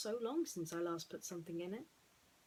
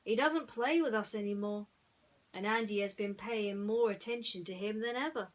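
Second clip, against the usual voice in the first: louder, lightly voiced cowboy worried for a friend; Woody; 2 semitones higher, 6 dB louder than usual. Woody telling the toys about Ham, lightly voiced concern. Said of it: "Woody said".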